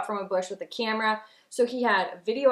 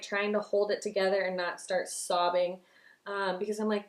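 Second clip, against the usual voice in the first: ordinary talk, nothing marked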